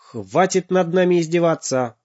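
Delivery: angry high father's bark. Acted. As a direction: snap at the robot in anger. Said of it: "неожиданно рявкнул папа".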